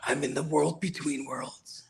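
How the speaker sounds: slow, hushed, mock mysterious; spooky whisper. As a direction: whisper like a lost spirit. Joking about a frozen video call.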